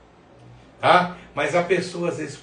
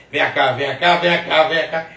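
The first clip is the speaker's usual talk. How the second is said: louder, rhythmic mimicked song refrain; imitating fluent singer; 5 dB louder than usual. Podcaster imitating a stutterer who flows freely in music, fluent and punchy. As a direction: rattle it off like a confident singer's hook. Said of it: "quando ele pega uma música".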